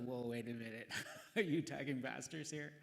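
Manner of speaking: half-laughing mock indignation; amused mock protest; laughing mock alarm. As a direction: laugh through a pretend objection. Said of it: "I was like".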